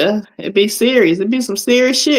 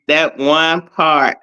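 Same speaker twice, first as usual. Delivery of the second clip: slow savoring; 2 semitones lower, much slower than usual. Real, not acted. Savoring the funny moment.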